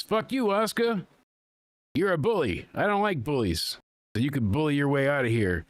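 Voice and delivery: high, heated mock Rhea snarl; imitating Rhea telling Asuka off; retold angry confrontation. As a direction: throw it at her like a challenge.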